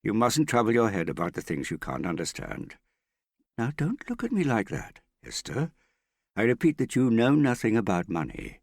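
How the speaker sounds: exasperated father putting his foot down; heated scolding. A narrator's reading. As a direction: scold your daughter with growing heat. Father scolds daughter, growing heated.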